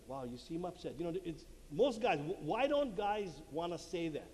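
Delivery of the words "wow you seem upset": soft, low acknowledgement; gentle validation. Shown as a demonstration. Husband validating his wife, gentle and soft. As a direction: acknowledge it quietly, pitched down.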